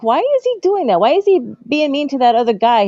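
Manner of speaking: put-on child voice. Child self asking dad.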